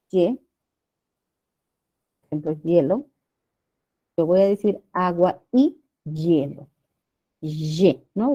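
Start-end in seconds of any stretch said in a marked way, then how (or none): 2.2-6.7 "hielo" dicho como "yelo", con sonido de ye. Shown as a demonstration. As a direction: pronuncia "hielo" con la y consonante al inicio. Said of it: "Es como si fuera una consonante". ("hielo" pronunciado como ye consonante)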